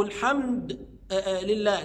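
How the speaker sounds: "الحمد" stopped on a bare d before "لله"; halting on dal. Retold or imitated. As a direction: break off after the d of "الحمد". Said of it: "ما يقفش عليها يسكنها". (الوقف على دال "الحمد" ساكنة)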